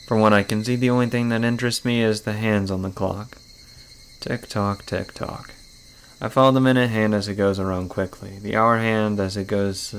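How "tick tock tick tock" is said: soft, fading, breathy tick-tock; whispered ticking. Acted. Girl in bed watching the clock, fading to a whisper. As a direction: hush it like a clock in the dark.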